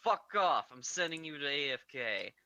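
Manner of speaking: a furious chef yells at the intruder. Retold or imitated.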